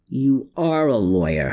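mildly exasperated groan; a touch of exasperation. A narrator's reading. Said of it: "Herman groaned".

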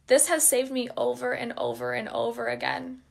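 moved, holding back tears; real emotion. Real, not acted. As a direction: voice thick with emotion. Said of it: "oh, I feel emotional right now".

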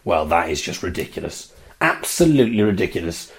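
low, quiet disgruntled mutter; exasperated grumble. Retold or imitated. Dad's fiancée grumbling at her mobile phone, exasperated. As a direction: grumble it under your breath, disgusted.

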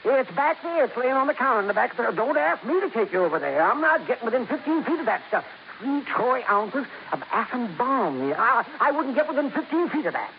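high, nervous and worried; scared. Acted. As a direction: pull away from it in fright. Parker scared of the radioactive gold.

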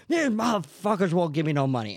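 loud, high-pitched mock outrage; imitated yelling. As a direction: yell it like a fed-up panhandler. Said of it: "just yelling at people".

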